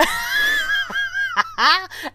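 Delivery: high, loud burst of cackling; cackling laugh. Real, not acted. Host cracking up at word confusion.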